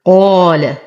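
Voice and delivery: قال with a full, heavy qaf and light lam. Shown as a demonstration. Teacher reciting for students, قال with emphatic qaf. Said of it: "نفخم القاف بأعلى درجات التفخيم".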